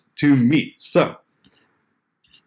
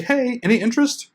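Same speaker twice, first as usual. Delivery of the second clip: high, lazy mock of a weak pitch; mock bad pitch; 9 semitones higher than usual. Shown as a demonstration. Blogger mocking a lazy outreach line, high and dismissive. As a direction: toss it off like a careless cold email. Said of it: "Don't say".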